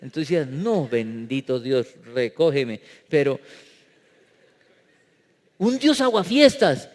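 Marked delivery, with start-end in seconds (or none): 0.4-2.8 mock exasperation. Acted exasperated reaction.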